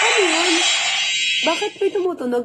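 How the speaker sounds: high, puzzled question; startled. Real, not acted. Vlogger hearing a strange sound, puzzled. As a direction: ask sharply about the noise.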